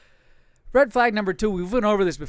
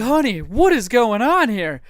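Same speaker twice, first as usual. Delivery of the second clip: quoting himself; 4 semitones higher, 6 dB louder, slower than usual. Retold or imitated. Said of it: "And I'm like".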